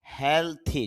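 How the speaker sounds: হেলথি with a clear th sound; th breathed in হেলথি, not দি; correct pronunciation. Shown as a demonstration. Teacher models হেলথি with th. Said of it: "দি না, হেলথি".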